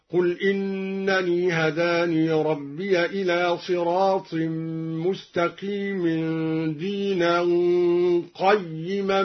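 قيما read qayyiman, fatha on ق and a doubled kasra ي; qiyaman with open qaf. Shown as a demonstration. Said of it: "قرأ بفتح القاف وتشديد الياء مكسورة هكذا".

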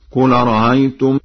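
"أرأيتم" chanted with the second hamza eased, halfway to a vowel; softened second hamza. Shown as a demonstration. Teacher demonstrates Warsh's first option, softened hamza in "أرأيتم". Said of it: "بتسهيل الهمزة الثانية بين بين".

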